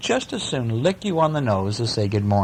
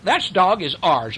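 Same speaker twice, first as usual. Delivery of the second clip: quacking duck; 7 semitones higher than usual. A narrator's reading. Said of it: "quacked the duck".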